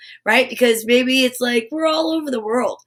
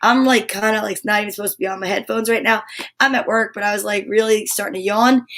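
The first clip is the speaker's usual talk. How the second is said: mock harried worker; 4 semitones lower than usual. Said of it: "because you're like".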